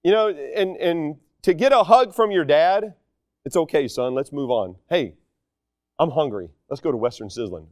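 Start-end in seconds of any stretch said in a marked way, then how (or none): 3.4-7.6 low, soft, easygoing reassurance; imitating a dad quietly letting it go; forgiving dad. Dad hugging his sorry son, soft low reassurance.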